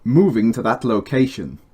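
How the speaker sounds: slight Brummie accent on Moving to that location; lightly Brummie vowels; a bit Brummie. Real, not acted. Voice line for the game with a slight Brummie accent. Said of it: "That sounded a bit brummy".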